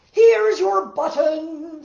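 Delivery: high, loud and slow; loud call. Acted. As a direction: sing it out to Toad. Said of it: "said Frog".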